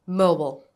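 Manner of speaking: "Mobile" finishing on a clear L; clear ending L. Shown as a demonstration. Teacher modelling a word to repeat, "Mobile" with a clear ending L. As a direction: model "Mobile" carefully, keeping the final l sound. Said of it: "Don't forget the ending sound".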